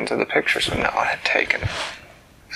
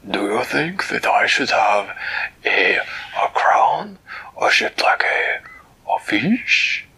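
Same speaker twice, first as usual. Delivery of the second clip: Flibbertigibbet musing; slower than usual. Acted. Flibbertigibbet asking Winella about his crown, slow and pondering. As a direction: wonder aloud about a fish-shaped crown.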